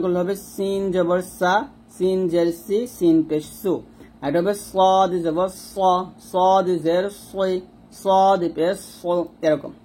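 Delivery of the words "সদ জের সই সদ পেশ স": "সই" and "স" slow and heavy, thick s; heavy sad. Shown as a demonstration. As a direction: thicken the s slowly. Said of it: "সদটা হবে মোটা". (মোটা করে স)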